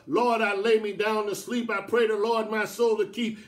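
even, singsong recitation; rote bedtime prayer. Retold or imitated. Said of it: "He didn't call on him like that".

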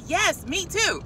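high, eager agreement; thrilled retold reply; imitating excited woman. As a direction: agree giddily, pitched right up. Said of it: "she was just so excited".

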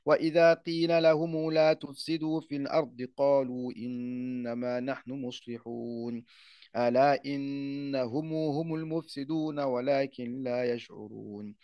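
Quran recitation. Acted. Teacher recites the start of al-Baqara, chanted. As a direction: recite with long held madd.

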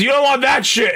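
high-pitched scolding; older drunk man. Retold or imitated. Old man repeating his objection to a shopper, high scolding. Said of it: "this was, like, a man in his".

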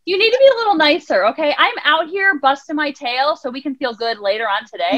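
mildly exasperated coaxing; chiding plea. Acted. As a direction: plead firmly for a little kindness. Talks down to her ego.

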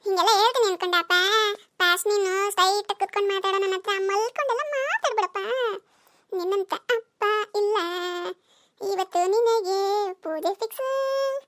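teasing threat. Acted. Child threatens father teasingly.

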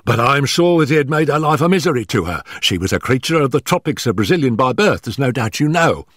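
high, hurried, stammering nervous man; gasping, out of breath. Acted. Nervous manager warning Holmes before his employer arrives, gasping and hurried. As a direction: blurt it out in short frightened bursts. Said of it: "our visitor gasped".

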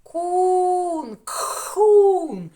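Кхун shouted high with a breathy х after к; separated sounds. Shown as a demonstration. Teacher sounding out the word for children, loud and high. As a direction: stretch Кун, then Кхун, loud and high. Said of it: "Звук Х і звук У".

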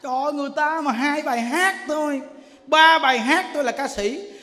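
ordinary delivery

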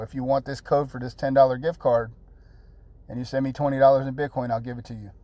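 slow, deliberate repeat of the offer; real slow. Shown as a demonstration. Vlogger repeating the Bitcoin offer to viewers, slowly. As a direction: spell it out slowly so they get it. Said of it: "I'm gonna say that again real slow".

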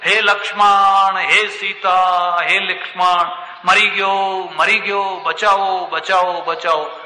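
drawn-out, half-sung calls that fade into a plea; mock cries for help in Rama's voice. Demon Maricha calling to Lakshman and Sita, drawn-out mock cries for help. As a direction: call out long and slow, as if dying far off. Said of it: "રામના અવાજમાં બોલવા લાગ્યો".

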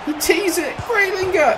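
very high, loud yell; shrieked match call; excited commentary shout. Real, not acted. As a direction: cry out the chance at the top of your pitch. Calling out a chance in the game.

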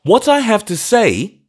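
put-on high, loud, faltering old clergyman; brokenly, high and loud; broken old vicar. A narrator's reading. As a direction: break up the words as he confesses. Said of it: "he said brokenly".

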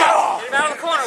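fast shouted order; yelling from the sidelines. Real, not acted. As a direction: yell it quickly at the screen. Yelling at the wrestler.

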